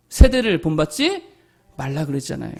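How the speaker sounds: ordinary delivery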